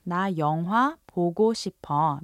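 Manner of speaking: fast casual 나 영화 보고 싶어; quick Korean line. Shown as a demonstration. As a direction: rattle off 나 영화 보고 싶어 quickly. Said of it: "if your friend says".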